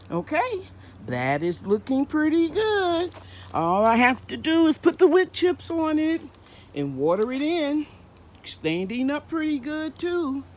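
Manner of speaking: high, loud and breathless after hard digging; puffing from the heavy work, voice pushed up high; out of breath. Real, not acted. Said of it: "I'm a little out of breath".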